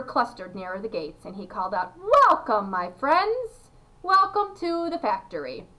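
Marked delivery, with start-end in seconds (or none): 2.3-5.7 high voice. A narrator's reading. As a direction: call out a grand, high-pitched greeting. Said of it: "His voice was high".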